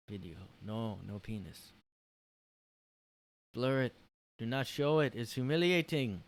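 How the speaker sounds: lightly put-on East Asian accent; mock Asian accent. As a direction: imitate a Japanese person's English, hammed up. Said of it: "heard me do the accent".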